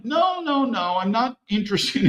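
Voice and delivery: high-pitched "no, no, no", acted out; mock protesting refusal. Answering a demand for money, protesting in mock refusal.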